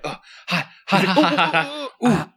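mock yelps at scalding water; quick little ouches, climbing in pitch; Bugs Bunny. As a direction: play a cartoon dip into too-hot water. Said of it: "he's like".

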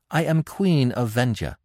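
high-pitched queen with a touch of imperiousness; regal, imperious queen voice. A narrator's reading. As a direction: remind him of your rank. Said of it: "a touch of her old imperiousness".

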